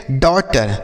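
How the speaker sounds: डॉटर with "aw" in the first syllable; aw vowel. Shown as a demonstration. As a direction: say डॉटर as "daw-tar". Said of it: "अ के रूप में होगा".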